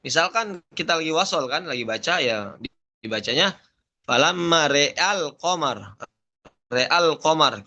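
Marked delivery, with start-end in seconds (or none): 4.1-7.7 RE'AL QAMAR with e only on the r; imalah when joined. Shown as a demonstration. Teacher showing connected reading, imalah on the r of RE'AL. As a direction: say "re'al" as re, then an open al. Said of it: "yang imalah".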